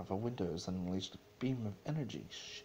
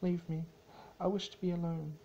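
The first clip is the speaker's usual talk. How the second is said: raised, curt royal voice; Celestia's cold dismissal; 10 semitones higher, 4 dB louder, faster than usual. Acted. Celestia to Luna, a raised, curt dismissal. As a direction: send her away, clipped and proud.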